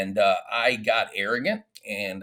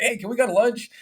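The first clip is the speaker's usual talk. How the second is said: sheepish ask; 12 semitones higher, 5 dB louder than usual. Retold or imitated. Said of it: "I'm like".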